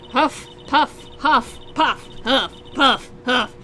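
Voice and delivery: put-on huffing and puffing old woman, out of breath; wheezy old lady. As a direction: puff through it like a cranky old lady chasing a boy. Voices wheezing old lady character.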